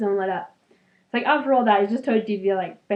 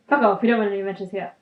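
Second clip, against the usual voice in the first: fast, blunt brush-off; cheeky paraphrase, said fast; blunt mock dismissal; 4 dB louder, faster than usual. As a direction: spit it out quick like a rude brush-off.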